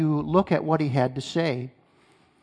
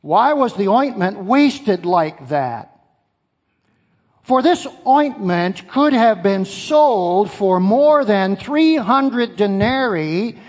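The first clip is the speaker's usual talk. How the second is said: indignant; 2 semitones higher, slower than usual. Retold or imitated. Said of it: "said to themselves indignantly".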